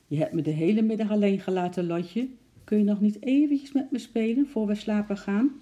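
high, fast pleading puppy voice; pleading dog voice. A narrator's reading. Dog Jim begging Lotje to come play. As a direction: beg like a lonely pet dog. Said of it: "alsof hij zeggen wilde".

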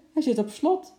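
high, loud complaint from an upset customer; indignant call. Acted. Woman with a stuck bike to the attendant, indignant call. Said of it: "riep ze".

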